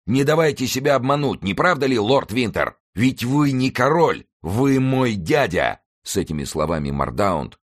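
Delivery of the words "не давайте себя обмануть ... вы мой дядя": high declamation, slowing at the end; taunting cries. A narrator's reading. Rider exposes Winter as his uncle, high taunting shout. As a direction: call out the exposure, drawing out the last words. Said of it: "воскликнул всадник".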